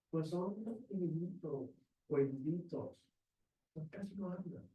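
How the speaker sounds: understated, hushed explanation; teacher's soft excuse. Acted. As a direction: answer quietly, as a teacher excusing shy pupils. Acting teachers describing shy children.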